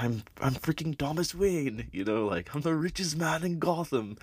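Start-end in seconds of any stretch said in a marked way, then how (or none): 0.0-1.9 Thomas Wayne. Retold or imitated. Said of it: "Thomas Wayne is just like". 2.5-4.2 Thomas Wayne. Retold or imitated. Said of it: "Thomas Wayne is just like".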